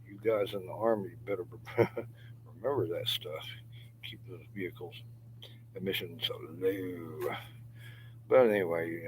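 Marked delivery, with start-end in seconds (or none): 4.0-7.3 joking whisper. Real, not acted. Joking aside to Army guys.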